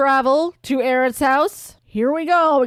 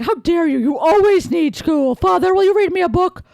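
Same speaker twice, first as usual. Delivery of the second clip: put-on indignant kid; 7 semitones higher, 4 dB louder than usual. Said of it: "And Greg is like".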